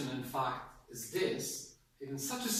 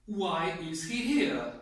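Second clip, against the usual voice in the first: slow, louder, annoyed question; angry; 5 dB louder, slower than usual. Shown as a demonstration. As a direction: demonstrate dislike, leaning hard on the words. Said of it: "If you're angry because you don't like him".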